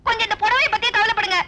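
exasperated plea. Acted. Daughter pleads with distracted father.

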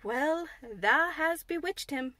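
drawn-out, puzzled amazement at half speed; puzzled wonder. A narrator's reading. Martha back from the sickroom to tell Mary, puzzled wonder. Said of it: "came back with a puzzled expression".

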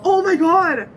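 high, loud, teary cry of his name; overwhelmed, half crying. Real, not acted. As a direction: break into happy tears over him. Overwhelmed watching her idol.

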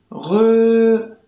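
"Rö" said high and loud, a stretched short Ö; exaggerated short Ö. Shown as a demonstration. Teacher exaggerating the short Ö in Rücken. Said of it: "Kurzes Ö".

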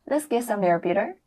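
mild echo of the film line; imitating the clip. Shown as a demonstration. Teacher mimics girlfriend for students to copy. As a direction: copy her line gently. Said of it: "注意模仿".

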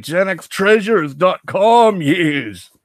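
put-on slow, drawn-out British accent. Vlogger plugging the website to viewers, put-on British accent. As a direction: turn suddenly British, stretching the words. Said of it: "I don't know why I turn British sometimes".

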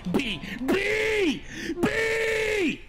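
escalating furious shout; shouted B, building. Real, not acted.

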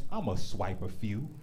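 low, slow lazy mutter; sleepy phone-in-bed voice; low, slow mumble. Retold or imitated. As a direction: mumble it half-asleep. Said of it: "wake up in the morning like".

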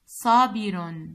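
صابر drawn out slowly and loud; teacher modelling صابر slowly; slow stretched word. Shown as a demonstration. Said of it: "تحليل كلمة صابر هو".

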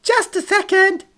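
very high, loud cartoon squawk; slow, piercing puppet-like yell; cartoonish gangster. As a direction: call it out like a children's TV puppet. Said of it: "like a character from a children's T V show".

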